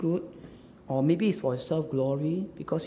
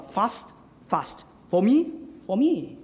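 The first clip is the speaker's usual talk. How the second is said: "fast" twice, then higher "for me" twice; emphatic repetition; 3 semitones higher, 3 dB louder, slower than usual. Shown as a demonstration. Preacher pointing out the doublets, emphatic "fast" and "for me". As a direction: make each "fast" and "for me" a separate beat. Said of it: "Emphatic again, double, right?".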